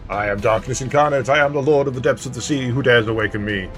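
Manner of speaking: lightly voiced gloating villain; a hint of a dark lord's boast. Reads villain dialogue aloud.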